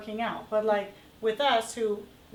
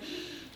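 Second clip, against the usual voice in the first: shallow breath sigh; 8 semitones higher, 13 dB quieter than usual. Shown as a demonstration. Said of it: "Not these, like".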